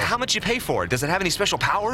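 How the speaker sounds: eager reporter ignoring interruptions; rapid-fire questioning. Acted. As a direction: keep firing questions like an auctioneer. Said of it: "You sound like an auctioneer".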